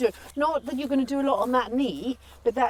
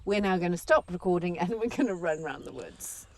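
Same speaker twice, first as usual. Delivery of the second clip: lower, softer, a touch deflated; mock-gutted sign-off; 4 semitones lower, 5 dB quieter than usual. Real, not acted. Co-host signing off before a run in the woods, mildly gutted. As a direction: sound mildly gutted to be wrapping up. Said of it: "Don't sound so gutted".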